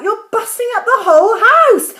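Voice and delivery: put-on loud, high boyish protest; calling back loudly. A narrator's reading. George calls back to Grandma, loud and high. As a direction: call back like a frantic boy. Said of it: "George called back".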